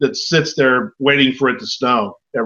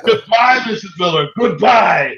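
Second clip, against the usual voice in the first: pointed, higher-pitched send-off; insistent, raised-pitch farewell; calling goodbye; 4 semitones higher than usual. Real, not acted. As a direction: call out to shoo her away. Host sends his wife away.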